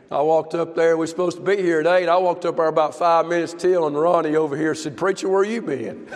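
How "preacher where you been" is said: laughing tease. Retold or imitated. Teasing quote from Ronnie.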